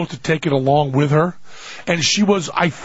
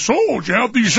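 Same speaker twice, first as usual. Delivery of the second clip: lightly put-on dry cleaner voice, higher; other guy voice; 5 semitones higher, faster than usual. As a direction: mimic dad's one stock stranger, pitched up. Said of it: "the dry cleaner goes; same guy".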